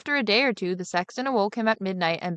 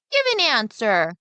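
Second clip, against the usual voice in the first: louder, slow demand; boy demanding an answer from the ghost, louder and slow; cry; 4 semitones higher, 5 dB louder than usual. Acted. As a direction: call out firmly to the silent figure. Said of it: "cried the boy".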